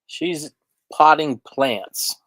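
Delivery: sleepy yawn through words. Real, not acted. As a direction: talk mid-yawn, slow. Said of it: "Are you yawning already".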